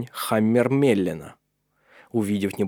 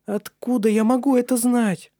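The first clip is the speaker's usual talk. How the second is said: high, lightly pleading woman's question; hurt young woman; 13 semitones higher, 3 dB louder than usual. Acted. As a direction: she doubts he really loves her.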